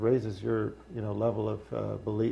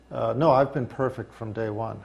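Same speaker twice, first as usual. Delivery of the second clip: sarkastycznie. Real, not acted. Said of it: "I'm being extremely sarcastic".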